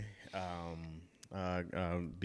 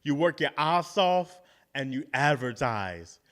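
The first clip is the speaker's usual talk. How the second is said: Arnold Schwarzenegger impression; 3 dB louder than usual. Podcaster quoting a star's motivational advice, Arnold Schwarzenegger impression. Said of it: "He don't talk like that".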